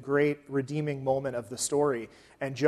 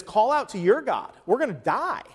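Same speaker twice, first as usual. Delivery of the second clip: urgent captain; 6 semitones higher, 3 dB louder than usual. Acted. Captain waking Jonah in storm, acted.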